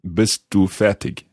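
careful non-native German accent; learner's German accent. Shown as a demonstration. Host repeats after the native speaker, in careful learner's German accent. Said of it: "in my rather bad German accent".

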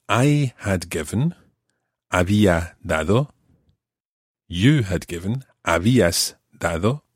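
slow, careful "I had given"; slow conjugation. Shown as a demonstration. Teacher walks through the pluperfect, slow and clear. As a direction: drill it slowly. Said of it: "that is the pluperfect tense".

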